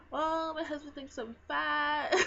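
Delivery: laugh-crying lament. Retold or imitated. Retelling how her husband's comment upset her, laugh-crying. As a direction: wail it through a laugh like it's tragic. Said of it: "I was so emotional".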